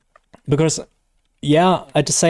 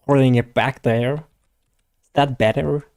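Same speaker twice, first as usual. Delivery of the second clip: tongue pulled back, trying an American accent; American accent attempt; slower than usual. Shown as a demonstration. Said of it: "put your tongue more into the back of your throat".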